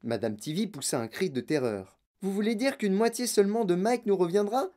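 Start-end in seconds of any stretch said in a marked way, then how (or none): 2.2-4.7 higher-pitched horrified question; mildly panicked exclamation; alarmed cry. Acted. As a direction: ask aghast, pitch lifted. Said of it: "cria-t-elle".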